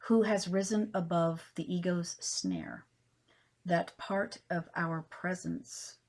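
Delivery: slow, spaced recital fading at the close; poetry reading. Acted. Poet ends her poem for viewers, slow fading recital.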